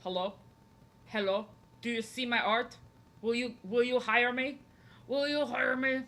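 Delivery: pleading, rising hopeful calls; begging for attention. Retold or imitated. Streamer mocking her own job emails, pleading calls. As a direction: plead like an ignored artist emailing everyone. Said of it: "I was like".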